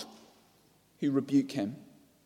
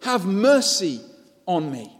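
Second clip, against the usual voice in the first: much higher, louder desperate cry; shouting louder; 5 semitones higher, 6 dB louder than usual. A narrator's reading. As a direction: shout over the crowd trying to silence you. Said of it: "he shouted all the more".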